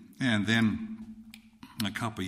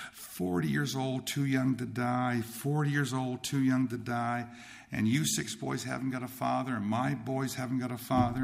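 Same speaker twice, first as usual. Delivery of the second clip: retold crying widow; 2 semitones higher than usual. Crying widow tells the teenage grocery boy her loss, mildly lamenting. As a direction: imitate a grieving widow, drawing the words out. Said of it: "she's crying".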